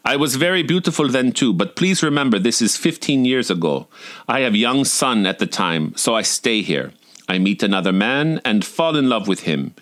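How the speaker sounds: a hint of a Russian accent; lightly voiced Russian waitress confiding; mild Russian accent storytelling. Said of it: "forgive my Russian accent".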